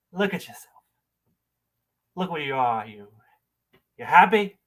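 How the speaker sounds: subdued, acted reproach with long pauses; accusing monologue. End of audition monologue.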